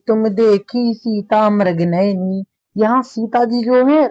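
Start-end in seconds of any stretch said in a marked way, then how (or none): 0.1-2.4 slow, measured verse recital; poem recitation. Acted. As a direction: let each word of the verse linger. (धीमा काव्य पाठ)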